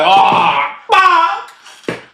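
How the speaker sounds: rising squeal of dread; high panicked oh fuck. Retold or imitated. Comic realizing he may have the clap, high squeal. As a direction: let it squeak up in horror.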